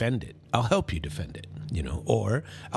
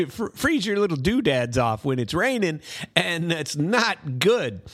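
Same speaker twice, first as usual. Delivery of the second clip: laughing; 7 semitones higher than usual. Real, not acted. Laughing after apologising for language.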